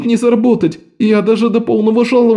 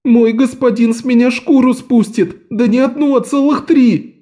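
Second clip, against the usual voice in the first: much higher, tearful wail; wailing boy; 12 semitones higher than usual. A narrator's reading. Lok wails to the fat man about his master. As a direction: howl in mock despair.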